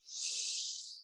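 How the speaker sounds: long slow breath out through the mouth; demonstrated deep sigh; deep audible exhale. Shown as a demonstration. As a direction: breathe out to show the way. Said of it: "take a lovely couple of deep breaths".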